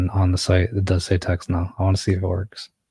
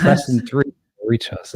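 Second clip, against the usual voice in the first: mock ad voice; 5 semitones higher than usual. Mock ad phone prompt.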